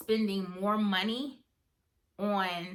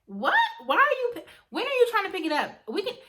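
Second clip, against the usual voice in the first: much higher and louder, quick; surprised friend jumping in to help; big sister's surprise; 12 semitones higher, 6 dB louder, faster than usual. Retold or imitated. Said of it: "She's like".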